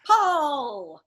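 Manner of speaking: loud sharp call to heave; shouted command. Pretend. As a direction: yell it on three. Group pulling rope on count.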